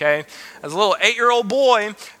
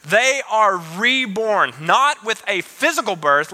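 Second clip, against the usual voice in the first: scripture reading; slower than usual. Acted. Reads scripture slowly.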